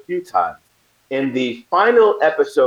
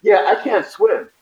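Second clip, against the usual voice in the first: slow, higher, sheepish confession; sheepish admission; 9 semitones higher, slower than usual. Retold or imitated. Actor admitting to the producer he can't swim, slow and sheepish. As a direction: drag it out, embarrassed. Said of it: "I was like".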